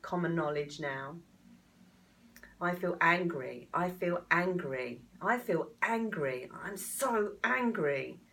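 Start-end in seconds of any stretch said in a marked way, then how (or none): 2.6-8.2 louder, slow, anger swelling; letting anger out. Shown as a demonstration. Coach tapping along, letting anger out loud. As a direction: push the anger out, line by line. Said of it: "And you let it out".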